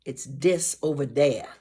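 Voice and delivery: "dis" said with a d, not th; Cajun "dis". Shown as a demonstration. Teacher showing kids the Cajun way: "dis". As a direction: swap the th for a d in "dis". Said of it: "they don't say, um, the T Hs".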